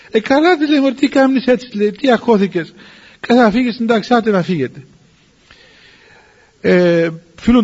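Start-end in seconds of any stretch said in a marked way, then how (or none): 0.1-4.8 raised-pitch, mildly chiding retold elder; dismissive reassurance. Elder letting the anxious nuns go, chiding and dismissive. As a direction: wave away the fuss, starting high and easing down. Elder brushes off the abbess's panic.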